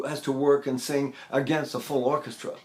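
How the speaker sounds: ordinary talk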